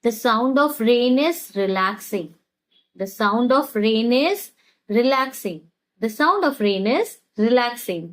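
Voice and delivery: very slow, word by word for learners; slow teaching demo. Shown as a demonstration. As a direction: spell it out slowly so students can repeat. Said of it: "इसे कैसे कहेंगे?". (धीमे-धीमे सिखाते हुए)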